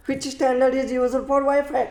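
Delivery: very slow, word by word question read; slow exam-question reading; slow dictation. Shown as a demonstration. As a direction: read it out slowly so students can note it. Teacher reads exam question aloud.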